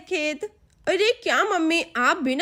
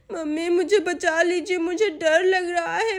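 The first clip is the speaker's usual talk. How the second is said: crying for mummy. Acted. Girl crying for her mother and father, tearful and scared. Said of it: "Sonam अभी भी रो रही होती है".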